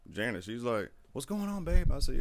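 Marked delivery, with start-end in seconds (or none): 1.1-1.9 much higher wife's voice, puzzled; sleepy wife. Retold or imitated. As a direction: ask like a woken wife, pitched way up. Wife woken at night voiced.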